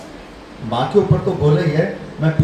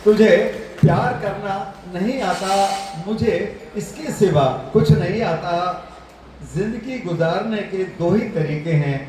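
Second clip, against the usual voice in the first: shayari recital; 4 semitones higher than usual. Real, not acted. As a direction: recite a couplet, pausing before each phrase.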